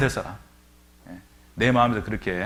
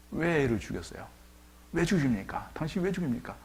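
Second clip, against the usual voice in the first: accusing crowd; 5 semitones higher, 3 dB quieter than usual. Retold or imitated. Crowd accusing Jesus of killing the boy, rising. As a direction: pitch climbing higher, accusing. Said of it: "원망이 찼을 겁니다".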